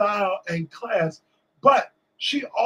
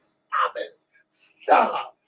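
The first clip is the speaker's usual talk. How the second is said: playful protest; 5 semitones higher, much slower than usual. Retold or imitated. Singer hushing a roaring crowd.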